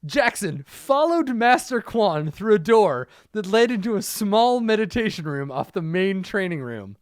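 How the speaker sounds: brighter, livelier reading. Shown as a demonstration. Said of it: "Let me read this again".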